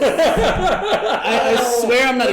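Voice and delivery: loud, high, laughing all through. Real, not acted. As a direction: talk while still laughing. Laughing about his role.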